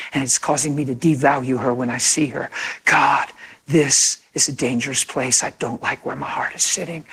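subdued, confiding prayer; earnest prayer. Acted. Husband alone with Jesus about his wife, subdued earnest prayer.

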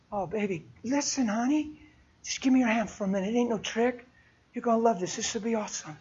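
a hushed, lightly voiced coax; gentle coaxing. Woman coaxing a stranger to give her hand, softly.

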